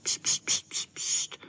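whispered pst pst; shushing. A narrator's reading. Boys hushing each other in the garden, whispered shushing. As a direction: hiss a quick shush. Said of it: "dělali pst".

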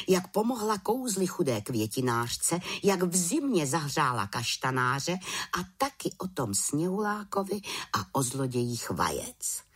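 plain reading voice

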